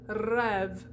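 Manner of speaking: rêve matched to the vowel of head; French rêve with "eh"; open E. Shown as a demonstration. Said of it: "try and scoot that in".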